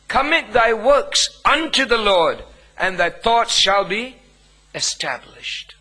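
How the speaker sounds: a measured reading of Proverbs; first reading of the verse, formal and even; scripture reading. Shown as a demonstration. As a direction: read the verse out formally, fading on the last word. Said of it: "This is a marvelous counsel".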